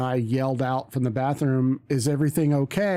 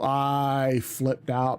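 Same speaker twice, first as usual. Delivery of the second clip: ordinary delivery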